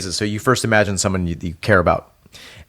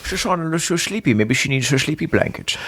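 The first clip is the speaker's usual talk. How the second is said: put-on cooing baby talk; 5 semitones higher than usual. Joining the silly voice game.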